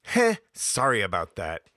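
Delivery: a little embarrassed heh then sorry; mock chuckled apology. Shown as a demonstration. Host mimics own flippant apology, chuckling. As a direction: shrug it off with a chuckle. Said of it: "is not an apology".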